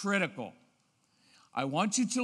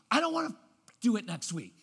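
put-on child's protest; 3 semitones higher, faster than usual. Child's inner protest acted out.

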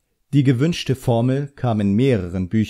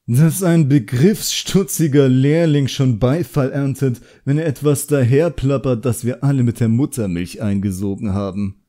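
condescending sneer; 5 semitones higher, 5 dB louder than usual. A narrator's reading. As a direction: belittle the apprentice before everyone, higher and louder. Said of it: "Er sah so herablassend aus".

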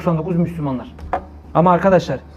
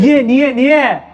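louder, higher insistent why; emphatic questioning; 6 semitones higher, 4 dB louder, much slower than usual. Acted. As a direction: hammer the question home. Preacher's rhetorical repeated question.

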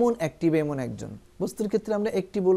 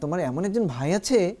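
surprised question. Shown as a demonstration. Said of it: "exclamation দিয়ে বলবো".

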